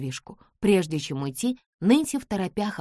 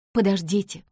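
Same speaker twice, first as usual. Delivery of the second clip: calling out; 4 semitones higher, 4 dB louder than usual. Acted. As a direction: call to a departing driver. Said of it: "окликнула его Нэнси".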